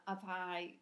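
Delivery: casual northern English accent. Real, not acted. Speaker stumbling over a question, northern accent. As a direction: let the northern accent slip out. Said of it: "see, there's the accent again".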